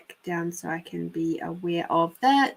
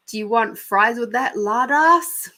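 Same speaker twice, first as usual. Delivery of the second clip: higher, louder mock drive-through jibe; tag overheard drive-through worker's insult; 4 semitones higher, 5 dB louder than usual. Fed-up drive-through worker to customer, mock insulting. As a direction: throw in the insult, rising on LARD ASS. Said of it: "And I heard".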